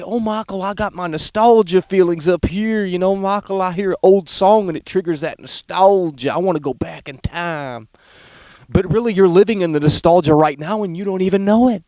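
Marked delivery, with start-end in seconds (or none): 0.0-6.3 mock a fan pining for the past; mocking nostalgic viewer. Streamer mocking a nostalgic viewer in a sappy voice. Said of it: "You sit there and you say". 6.3-7.9 breathy whispered longing, mocking; mock wistful whisper. Streamer mocking a nostalgic viewer in a wistful whisper. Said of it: "You sit there and you say".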